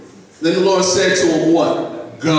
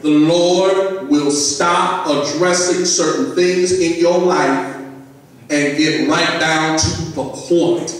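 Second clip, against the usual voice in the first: a bit louder, slow, every word clear; louder and clearer; slower than usual. Shown as a demonstration. Pastor repeating the point to the congregation, louder and clearer. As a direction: press it home for the church. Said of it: "Let me say that louder and clearer".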